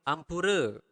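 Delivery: "Ampura" with a clearly pronounced R; teacher's careful "Ampura", R fully audible. Shown as a demonstration. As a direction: sound the R in "Ampura" distinctly. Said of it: "pronounce the R clearly".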